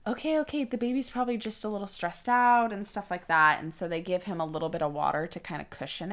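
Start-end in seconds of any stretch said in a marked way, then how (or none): 0.1-2.7 calming nurse. Retold or imitated. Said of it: "they're like".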